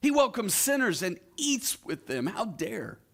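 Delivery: a high, scornful Pharisee grumble; indignant religious teacher griping about the company Jesus keeps, mocking; mock grumbling. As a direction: sneer it like an offended Pharisee. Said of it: "they muttered under their breath".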